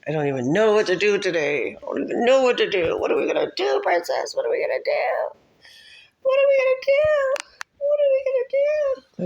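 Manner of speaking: rising into a very high squeal; mock panic. Playful panic over what to do.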